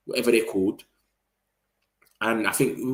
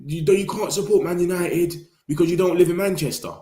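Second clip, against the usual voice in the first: higher-pitched sarcastic ban; mock gatekeeping; 7 semitones higher than usual. Gatekeeper to fans in Ireland and Denmark, mock disapproval. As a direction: imitate a fan shutting someone out. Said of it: "Do we tell people that are in Ireland and Denmark".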